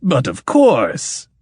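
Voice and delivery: slow, generous indulgent tone. Acted. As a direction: grant it with lordly indulgence. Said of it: "said the king indulgently".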